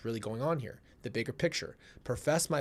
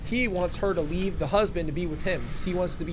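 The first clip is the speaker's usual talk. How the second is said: emphatic explaining; 5 semitones higher, 4 dB louder than usual. Real, not acted. Breaking it down loudly.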